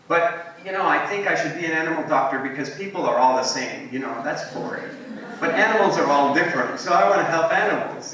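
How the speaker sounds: put-on earnest kid reasoning it out, animated; eager little niece. Little niece telling her masi about being an animal doctor, lightly eager.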